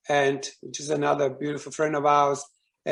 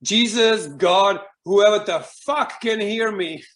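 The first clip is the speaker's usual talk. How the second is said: louder, higher outburst at God; retold fury; 5 semitones higher, 4 dB louder than usual. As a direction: re-enact a furious, sweary plea, pitched up. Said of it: "I was furious".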